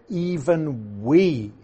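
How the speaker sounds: "even we" stretched very slowly; emphatic EVEN WE. Shown as a demonstration. Teacher explaining verse sixteen, "even we" slowly emphasized. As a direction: give each word of "even we" long, deliberate weight. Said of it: "is so emphatic".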